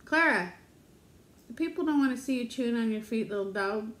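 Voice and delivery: mild sing-song reproach; gentle pet scolding. Real, not acted. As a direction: chide a pet fondly. Chiding the pet dog.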